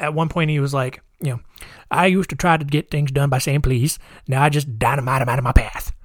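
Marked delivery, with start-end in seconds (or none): 1.9-5.9 lightly put-on politician character voice; a hint of a caricatured politician; Huey Long. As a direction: lightly act out a hard-nosed political boss. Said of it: "just how he talks in my head".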